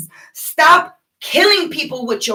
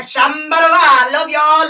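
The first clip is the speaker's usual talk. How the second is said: higher, louder pretend tongues babble; hammed-up speaking in tongues; mock light language; 4 semitones higher, 5 dB louder than usual. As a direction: gush out fake spirit-speak. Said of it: "I wanna speak light language".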